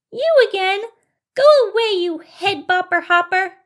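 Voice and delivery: high, loud mouse shout; angry field mouse. Acted. Mouse seeing head bopper again, angry high shout. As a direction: yell them away in a high little voice.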